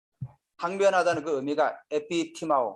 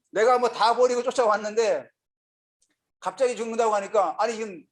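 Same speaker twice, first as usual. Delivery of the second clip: raised-pitch indignant protest; Peter, worked up; 5 semitones higher than usual. Acted. Preacher as Peter on hearing of the death, worked up. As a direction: argue like a disciple who feels cheated. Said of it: "열받은 거죠".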